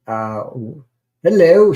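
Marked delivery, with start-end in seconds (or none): 1.2-1.7 quoted hello. Retold or imitated. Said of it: "she says".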